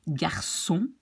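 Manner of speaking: "garçon" as gar-son, clear s; s sound mid-word in "garçon". Shown as a demonstration. Teacher shows the cédille word, s in "garçon". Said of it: "you make the C in a little S".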